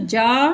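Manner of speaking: जा with mouth wide open, long "aa"; full open jaa. Shown as a demonstration. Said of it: "mouth open करके पूरा जा बोल रहे हैं". (मुँह खोलकर पूरा जा बोलें)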